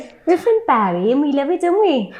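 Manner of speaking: put-on Welsh accent. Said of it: "pretend to be Welsh".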